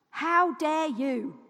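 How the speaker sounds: slow, drawn-out rebuke. Real, not acted. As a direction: stretch it out in godly rage. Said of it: "godly rage".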